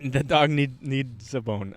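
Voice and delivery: "need, needs a bone" with a clear D; careful pronunciation. Shown as a demonstration. Clearing up a misheard phrase, "needs" carefully pronounced with its D. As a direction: separate the words, sounding the D in "needs". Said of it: "There's a D".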